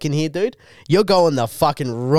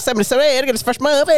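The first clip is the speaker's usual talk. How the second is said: high squeaky voice; squeaky kid voice; 9 semitones higher, much faster than usual. Retold or imitated. Friend doing the teen worker, high squeaky voice. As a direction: chirp it like an eager boy. Continuing the Elliot impression.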